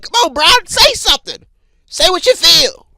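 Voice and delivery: put-on high, pushy kids' coaxing; urging cousins. Cousins urging Brian to cuss.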